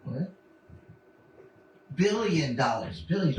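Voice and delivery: lightly voiced movie supervillain; Doctor Evil. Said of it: "doing the Doctor Evil voice and nailed it".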